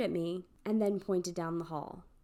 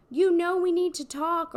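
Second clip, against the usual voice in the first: mock stalker; 8 semitones higher, 8 dB louder than usual. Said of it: "this guy comes running up and says".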